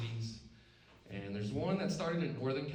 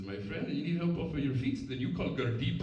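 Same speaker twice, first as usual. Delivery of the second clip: mock Indian accent; 2 semitones higher, 4 dB louder than usual. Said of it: "Do an Indian one".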